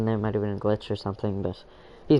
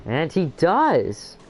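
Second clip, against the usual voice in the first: drawn out, high excited call; excited exclamation; 6 semitones higher, much slower than usual. Real, not acted. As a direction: stretch it out in disbelief. Collision replay, commentator exclaims.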